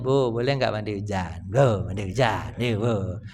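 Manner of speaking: lightly voiced kid pleading; whiny child begging. Child begging his mother to let him bathe in the rain.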